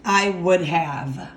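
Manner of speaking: "I would have" drawn out slowly; slow example. Shown as a demonstration. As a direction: stretch "I would have" out for the class. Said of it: "if I wanted to say".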